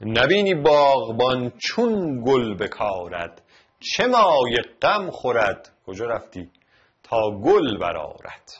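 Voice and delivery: measured poetic reading; poem recitation. Shown as a demonstration. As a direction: read the verse like a poem. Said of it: "بیت بعدی".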